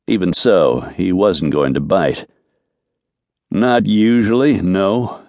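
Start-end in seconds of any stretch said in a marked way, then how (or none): 3.5-5.2 words pushed through gritted teeth. Acted. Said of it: "he said through gritted teeth".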